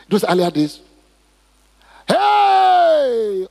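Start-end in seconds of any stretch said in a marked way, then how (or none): 2.1-3.5 high, loud sudden yell; retold yell. Husband reenacting how he once yelled at his wife. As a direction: bark it out like an angry husband.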